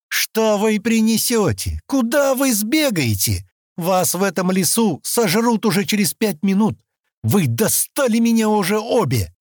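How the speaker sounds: Stan loses his temper and shouts, furious; shouting. A narrator's reading. Furious shout. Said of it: "закричал он".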